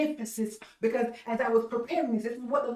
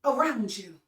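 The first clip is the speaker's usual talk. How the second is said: disciples protesting; 4 semitones higher than usual. Retold or imitated. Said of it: "The disciples said".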